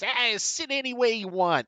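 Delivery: lightly voiced lazy bartender; hint of a casual bartender. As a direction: toss it off like a bored barkeep. Bartender Stevie greets the party.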